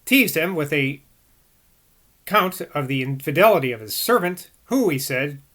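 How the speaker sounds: measured book narration; formal read-aloud. A narrator's reading. Reader giving Boswell's view of Rousseau, formal read-aloud. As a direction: read the long sentences out with care.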